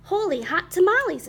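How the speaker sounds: high, loud burst of amazement; exclaiming. A narrator's reading. Kitty boy shooting past his reflection, exclaiming. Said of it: "exclaimed Skippy John Jones".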